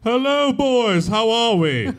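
muffled as if on the phone, through a cup. Acted. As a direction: fake phone line, talking into a cup. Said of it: "sounds more like you're holding a cup".

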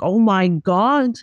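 slow then leaping high on clothes off; excited. Retold or imitated. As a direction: gush like you can't contain it. Quoting own excited reaction.

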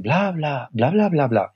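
lilting, swooping blah-blah; singsong, softened nonsense syllables; imitated kinder tone. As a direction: mimic someone reading a friendly email. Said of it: "en el segundo lo leen".

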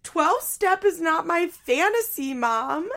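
high, loud, drawn-out retort; mock outburst. Daughter rejecting her mom's advice, hammed-up yelling. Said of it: "Janelle responds".

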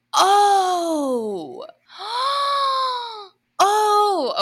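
high, loud startled gasps; shocked cry. Real, not acted. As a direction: yelp in real shock.

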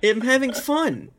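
put-on high childish whine; mock whining. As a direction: whine like a kid denied fun. Mock whining about episode end.

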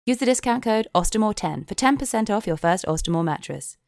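measured spoof sponsor read; straight-faced commercial voiceover; podcast ad read. Acted. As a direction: sell it like an earnest advert.

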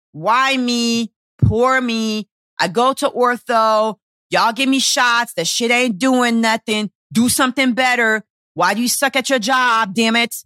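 slightly whiny mock complaint; acted-out poor-me griping; whiny victim mode. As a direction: stretch out the grievances in self-pity. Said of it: "the whining and the victim mode".

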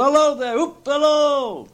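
high whooping shout; joyful hallooing. A narrator's reading. Scrooge greets all the world, whooping. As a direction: whoop and halloo, drawing out the last word.

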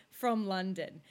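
brief attempt at a British accent; London accent. Shown as a demonstration. Claiming to sound British, London accent. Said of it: "I can convincingly be like".

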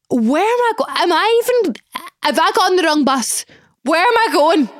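high-pitched mock-panicked questions; re-enacted panic. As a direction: act out realising you may be lost, voice shooting up. Re-enacts panic on the wrong bus.

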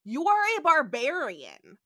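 hammed-up villain sneer; mock villain. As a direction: proclaim it grandly like a smug villain. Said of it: "he's like".

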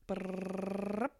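second, longer lip-trill drum roll; drum roll noise. Pretend. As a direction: buzz a drum roll with the lips. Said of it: "All right, so drum roll".

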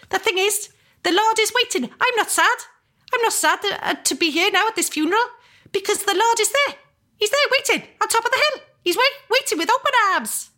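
very high, fast, staccato Cardiff priest. Retold or imitated. Priest at a funeral reassures mourners, fast and staccato. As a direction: rattle it off brisk and chirpy. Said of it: "he spoke very staccato".

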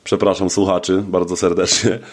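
low, tired hungover voice. Real, not acted. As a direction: sluggish and worn out from a hangover. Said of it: "kac mnie strasznie męczy".

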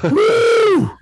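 high sarcastic whoop; hammed-up woo; mock cheer. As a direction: cheer like it's brilliant news. Mock celebrating a coach cliché.

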